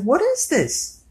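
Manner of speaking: slow, high disbelieving question; mock bewildered squeak. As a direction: drag it out up high, baffled. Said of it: "I was like".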